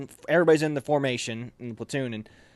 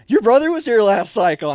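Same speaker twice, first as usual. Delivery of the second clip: loud, high imitation of a sergeant; booming accusation, acted out; drill sergeant's shout; 8 semitones higher, 10 dB louder than usual. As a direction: bark it at the recruit. Drill sergeant confronts the trainee.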